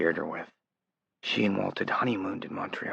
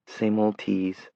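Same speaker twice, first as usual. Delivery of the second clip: Sarah teasing; much slower than usual. Acted. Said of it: "he agreed".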